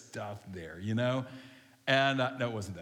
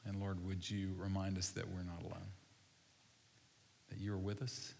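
hushed, lowered voice leading a congregation in prayer; slow prayer; 3 semitones lower than usual. Real, not acted. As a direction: pray unhurriedly, leaving room to reflect. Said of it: "I'm gonna pray really slow".

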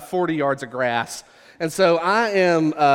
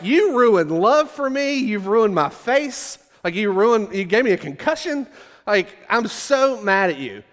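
higher-pitched, slowed, overblown mock tirade; dramatic mock rage; 5 semitones higher than usual. Knocked down by a Frisbee, yelling at his leader Steve, hammed-up fury. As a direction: play the wounded drama queen. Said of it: "'cause I was being dramatic".

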